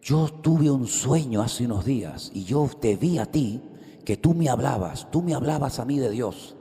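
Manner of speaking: slow, earnest retelling of a nervous dream confession; hint of a jittery stranger, slowed down; nervous young man. Preacher voices the nervous man from the market, slowly. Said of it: "muy nervioso y me dice".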